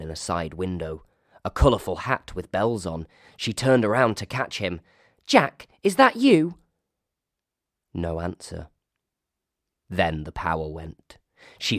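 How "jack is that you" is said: high, loud frightened call; nervous call. Acted. Emily to the unseen jester, high and frightened. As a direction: call out into the dark, scared.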